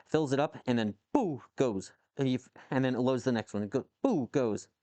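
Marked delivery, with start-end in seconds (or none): 1.1-1.4 spoken launch sound effect; imitated gun firing. Streamer describing a homemade can gun firing, imitated boom. 4.0-4.3 spoken launch sound effect; imitated gun firing. Streamer describing a homemade can gun firing, imitated boom.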